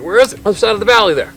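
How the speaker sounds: imitated quick, high-pitched back-and-forth; mock urgent spotting voice; excited exchange. Retold excited exchange over sighting.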